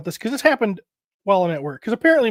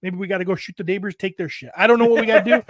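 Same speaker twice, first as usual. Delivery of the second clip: retold dad pep talk. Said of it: "I'm like".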